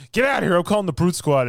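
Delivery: high, loud get-lost yell; loud shooing. Retold or imitated. Friend imitates the gatekeeper yelling from the door, high and loud. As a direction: shoo them from the doorway. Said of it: "It's like".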